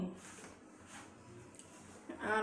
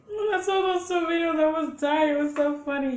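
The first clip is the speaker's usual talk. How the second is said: excited; 5 semitones higher, 6 dB louder than usual. Real, not acted. Excited recalling funny videos.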